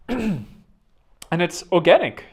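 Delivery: slow, stretched German-sounding "organic"; an accidental German lilt on "organic"; "organic" drawn out slowly in a German accent. Real, not acted. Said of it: "I don't know why I sounded so German there".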